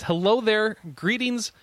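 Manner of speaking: lightly attempted Russian accent. Host reading a Russian writer's email, tentative Russian accent. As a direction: read it with a hint of a stereotypical Russian accent. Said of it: "should I do stereotypical Russian accent".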